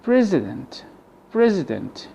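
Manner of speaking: "President" with a weak uh for the I; schwa for I. Shown as a demonstration. Teacher models the replaced I, "President" with schwa. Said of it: "The I here is replaced by the schwa".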